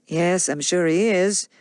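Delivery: slow, smooth agreement; a hint of smooth charm. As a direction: soothe her without arguing. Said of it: "said Rhett smoothly".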